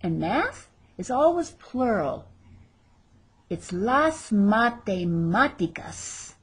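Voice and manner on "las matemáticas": matemáticas slow, stress on the third "ma"; stress on the accented A. Shown as a demonstration. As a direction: draw out "matemáticas", leaning on the accented á. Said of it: "There's our accent over that A".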